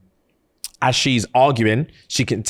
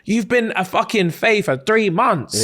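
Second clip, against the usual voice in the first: patronising lecture; 10 semitones higher than usual. Retold or imitated. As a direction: belittle her, half laughing. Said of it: "and he's like".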